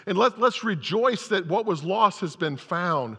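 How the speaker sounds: put-on father pleading with his older son. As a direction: coax him inside kindly. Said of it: "he pleads with his older son".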